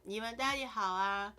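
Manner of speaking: low, slow, minimal mumbling; low-energy phone voice. Shown as a demonstration. Streamer calling her family in a flat, tired voice. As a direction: say as little as possible, tired. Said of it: "That's how I literally talk".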